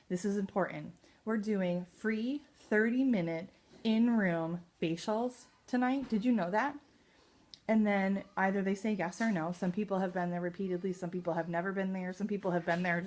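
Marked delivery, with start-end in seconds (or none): 1.2-6.8 very slow, loud, lifted pitch of the offer; slow on the details. Shown as a demonstration. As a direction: spell out each detail slowly so it lands. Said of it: "I slow down when I'm talking about that".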